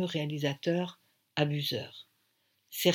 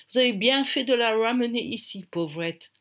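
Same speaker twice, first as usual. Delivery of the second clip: put-on high, loud British-accented French; British accent, lifted and enthusiastic; 6 semitones higher, 4 dB louder than usual. A narrator's reading. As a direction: play an Englishman congratulating her in French. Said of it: "avec son accent british".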